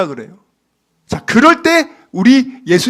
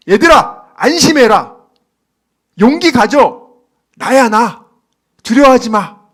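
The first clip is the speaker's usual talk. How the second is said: firm, louder reassuring call to disciples; kind reassurance; 5 dB louder than usual. Acted. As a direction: comfort frightened friends kindly. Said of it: "아주 친절하게".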